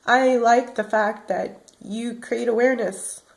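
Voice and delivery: fading, worn-out murmur; exhausted. Real, not acted. Telling viewers how the disease wears her out, exhausted. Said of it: "I get exhausted".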